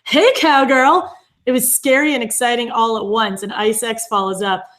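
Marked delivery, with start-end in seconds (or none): 0.1-1.1 drawn-out, high, loud call; imitated yell. Podcast host quoting Debbie's ambush on Sierra, imitated yell. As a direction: holler it slowly to startle someone. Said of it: "startles Sierra by yelling".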